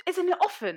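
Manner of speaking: "often" with no T, as OFF-en; silent T. Retold or imitated. Boys correcting her at the table, often with silent T. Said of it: "And they were like".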